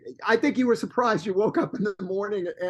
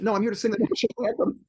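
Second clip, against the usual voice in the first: quick words through laughter; laughing reply; 4 semitones higher, faster than usual. Retold or imitated. Telling his co-host what he answered the officials, laughing. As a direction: laugh as you tell it.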